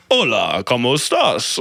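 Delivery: mock-formal textbook Spanish greeting; overly proper. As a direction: greet like a stiff beginner reading from a coursebook. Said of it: "say that so properly".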